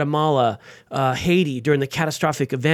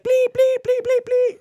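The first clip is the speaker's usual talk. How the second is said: very high hammed-up bleeped swearing; mock cursing rant; slower than usual. Furious caller swearing at the host, hammed up very high. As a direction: squeal out the censored curses. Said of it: "and he's like, curse".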